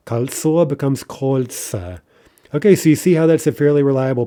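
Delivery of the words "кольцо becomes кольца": Кольцо stressed at the end, кольца at the start, slowly; stress shift. Shown as a demonstration. Teacher slowly modeling the stress jump. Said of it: "stress in neuter plurals".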